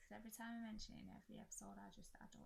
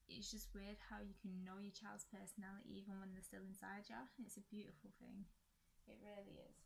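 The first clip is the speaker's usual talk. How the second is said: short of breath from a chest infection. Real, not acted. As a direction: talk while running out of air. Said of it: "And I'm getting out of breath now".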